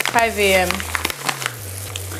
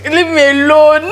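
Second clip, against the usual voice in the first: exasperated plea; 6 semitones higher, 7 dB louder than usual. Retold or imitated. Labouring wife to nurse, exasperated high wail. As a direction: re-enact a fed-up wail to be left alone. Retold snapping back in labour.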